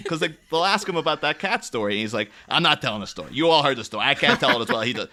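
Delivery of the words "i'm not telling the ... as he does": mildly exasperated refusal; lightly acted exasperation; Richard Kind. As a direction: refuse with a touch of mock weariness. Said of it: "you can tell it exasperates him".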